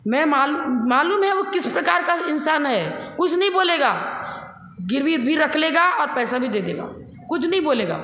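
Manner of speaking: high, emphatic reassurance; wife urging husband to go, insistently. Retold or imitated. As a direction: press him hard that he'll say nothing.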